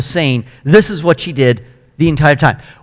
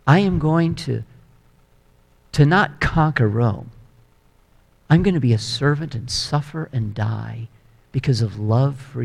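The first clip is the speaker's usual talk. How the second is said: gentle Jesus invitation; 3 dB quieter than usual. Acted. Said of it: "and he says".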